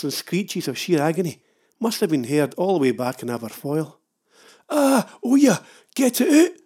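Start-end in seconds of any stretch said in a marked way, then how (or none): 4.7-6.5 high, loud pained whimper. Retold or imitated. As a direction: whine it out like a wounded man. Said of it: "I whimpered".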